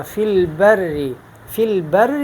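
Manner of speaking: البر with a light, held R; thin doubled ra. Shown as a demonstration. Teacher letting students hear the difference, thin ra. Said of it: "یہ باریک ہے".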